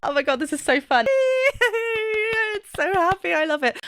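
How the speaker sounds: high, giddy delight with laughter; bubbling over, giggly and high; real excitement. Real, not acted. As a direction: squeal with glee, pitch jumping up. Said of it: "I'm getting really excited".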